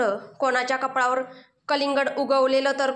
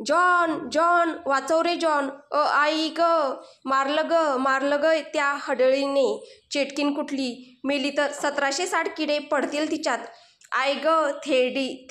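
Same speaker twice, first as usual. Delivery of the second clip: pained calling for help. Acted. Rana calling John in pain.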